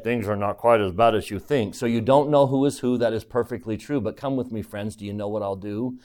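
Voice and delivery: a hint of a conspiratorial huckster; sly salesman. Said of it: "with a very sly wink".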